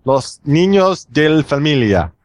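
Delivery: slow Spanish in a mock Italian accent; hammy Italian-gringo accent on Spanish. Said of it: "It was the Italian accent".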